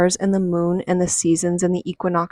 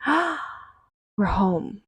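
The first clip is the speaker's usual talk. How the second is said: relieved homecoming sigh; 2 semitones higher, 6 dB quieter, slower than usual. Retold or imitated. Ancestors recognizing Ireland.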